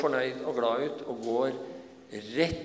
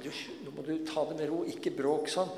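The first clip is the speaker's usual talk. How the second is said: quick hushing that swells higher and louder; hushing bystanders; 5 semitones higher, 4 dB louder than usual. Acted. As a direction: bystanders scolding Bartimeus, quick then louder. Bystanders hush the blind man.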